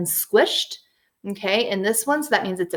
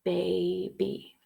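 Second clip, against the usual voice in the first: soft syllable check; 2 semitones lower, 10 dB quieter than usual. Shown as a demonstration. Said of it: "Let's feel it one more time".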